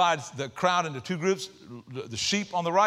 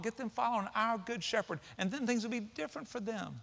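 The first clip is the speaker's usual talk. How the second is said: compassionate Jesus; 5 semitones higher, 4 dB quieter than usual. Retold or imitated. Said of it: "you know what he thinks?".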